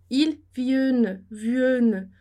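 vienne said as VEEN-nuh, with no open e; il vienne with the e dropped to an ee sound; wrong French pronunciation. Shown as a demonstration. Teacher shows how vienne would wrongly sound. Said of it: "a gente falaria".

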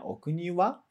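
short question, raise the pitch on "wa"; rising on "wa". Shown as a demonstration. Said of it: "um tom mais alto".

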